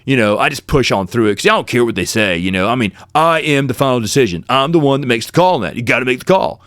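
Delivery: lightly mocking a boastful referee; bragging. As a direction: imitate a guy talking himself up, mildly. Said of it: "he's bragging".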